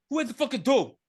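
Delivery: acted irritated call. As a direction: call out to the door, annoyed. Acts character calling to the door.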